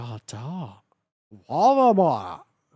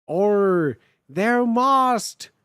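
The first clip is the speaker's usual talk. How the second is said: put-on offensive Australian accent; 5 dB louder, much slower than usual. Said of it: "the most offensive Australian accent".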